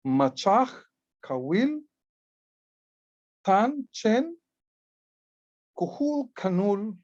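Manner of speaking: reading glyphs aloud to the class. Shown as a demonstration. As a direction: sound out each Maya word separately. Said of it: "So here we have".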